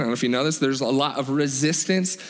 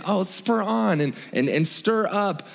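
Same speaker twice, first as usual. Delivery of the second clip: higher-pitched, lightly put-on gentle phrasing; mild mock-gentle; 5 semitones higher than usual. Shown as a demonstration. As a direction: toss it off as a mild suggestion. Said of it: "these kind of sound like, gen".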